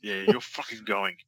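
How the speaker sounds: high, hyped-up cheer; excited cheering. Real, not acted. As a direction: cheer the fighter on. Cheering the fight on.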